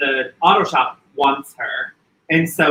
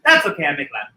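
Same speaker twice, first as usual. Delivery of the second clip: put-on high, loud Greek accent; Greek aunt accent; 8 semitones higher, 4 dB louder than usual. Quoting the aunt about the vegetarian, loud Greek accent. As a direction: exclaim it like a shocked Greek aunt. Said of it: "your line was".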